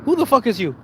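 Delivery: hammed-up stunned outrage; mock outraged yell. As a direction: bark it in disbelief. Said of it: "I've been looking at her going".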